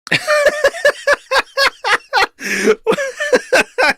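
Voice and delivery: big laugh at how short it was. Real, not acted. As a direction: burst out in a high cackle. Reacting to video ending.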